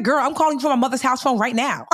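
high, mock-shouted confession; exasperated comeback. Broke friend to her bestie on the phone, high exasperated holler.

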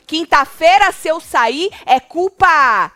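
imitated huffy declaration, loud; irritated. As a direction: retell an annoyed threat, drawing out "culpa". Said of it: "Aí ele se irritou e falou".

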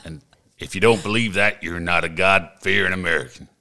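slow drawling country music star; a proud Texan country singer introducing himself; country singer archetype. Acted. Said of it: "Just one archetype".

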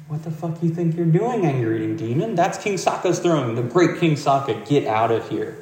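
a hammed-up angry guard shout. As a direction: chase the demon off your king's throne. Guards yelling at demon.

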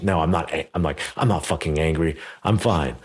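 imitating a mild, tight angry insistence; angry denial. Retelling telling his coach he is not angry, mildly mock angry. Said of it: "in the most angry voice possible".

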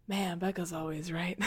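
low, soft aside; under the breath. Acted. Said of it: "under her breath is like".

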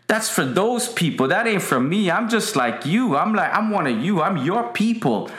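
butter them up like a sly politician; smooth-talking flatterer. Retold or imitated. Absalom flattering petitioners.

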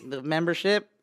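Karen. Shown as a demonstration. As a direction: ask it like an indignant Karen. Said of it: "Can you do the Karen one?".

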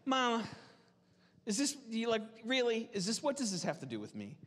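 fond, half-joking son talking to his mother; gentle, playful son. Retold or imitated. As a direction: lightly tease his mother, brisk on the last question. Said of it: "he's just like".

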